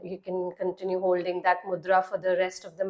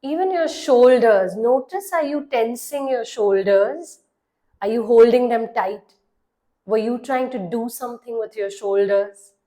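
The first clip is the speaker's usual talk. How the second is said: measured meditation voice with long pauses; guided meditation; 4 dB louder than usual. Acted. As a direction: guide the listener into relaxing, leaving long silences between phrases. (calm guided-meditation delivery)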